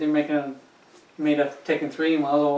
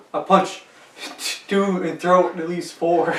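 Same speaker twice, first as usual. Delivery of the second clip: mock Russian accent; 2 semitones higher, slower than usual. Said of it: "this crazy Russian".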